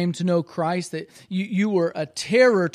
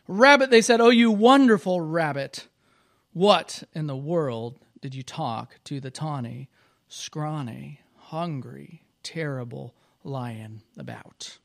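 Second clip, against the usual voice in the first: excited praise; 4 dB louder than usual. Acted. Animals praising rabbit in story.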